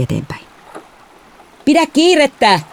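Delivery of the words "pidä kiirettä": high-pitched urgent shout; shouted command; father shouting. A narrator's reading. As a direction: call out to hurry across the water. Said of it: "isä huusi".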